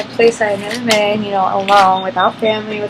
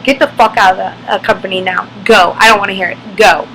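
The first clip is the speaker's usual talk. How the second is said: angry order; 2 semitones lower, 4 dB louder than usual. Retold or imitated. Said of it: "And he was like".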